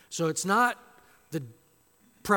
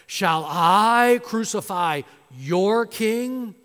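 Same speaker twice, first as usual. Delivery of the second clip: mocking question; 4 semitones higher, 9 dB louder, much slower than usual. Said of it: "And Pilate said to them".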